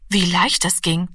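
usual speaking voice

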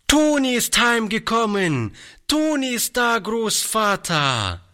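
put-on little girl announcing her find; excited little girl calling. A narrator's reading. Dolly calls joyfully to her grandfather, high child's voice. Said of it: "rief sie aus Leibeskräften".

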